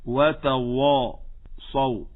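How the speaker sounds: very slow وتواصوا, its وا thickened and dark; heavy waw. Shown as a demonstration. Teacher says listen to the mistake, heavy waw in وتواصوا. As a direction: drag out a dark, emphatic وا in وتواصوا. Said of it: "فلما فخمتها؟".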